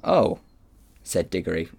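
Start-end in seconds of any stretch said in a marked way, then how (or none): 0.0-0.4 small high gasp of surprise; very surprised. A narrator's reading. Diggory after Polly's tirade, very surprised. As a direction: utter it higher, taken aback. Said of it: "very surprised".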